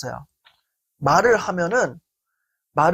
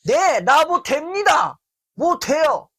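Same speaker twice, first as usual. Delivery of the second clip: much higher, slow, daring retort; defiant comeback; 7 semitones higher than usual. Retold or imitated. Speaker snapping back at the friend mid-fight, higher and defiant. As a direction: fire back, done being patient. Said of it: "이러면서 막 싸웠어요".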